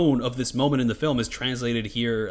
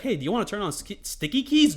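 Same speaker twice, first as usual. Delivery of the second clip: annoying popup voice; 6 semitones higher than usual. Retold or imitated. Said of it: "it'll be like".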